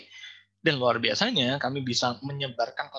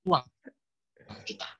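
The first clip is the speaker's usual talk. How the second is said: choppy connection, words dropping out; glitching audio; 4 dB quieter than usual. Real, not acted. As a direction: voice cutting in and out. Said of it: "suaranya putus-putus".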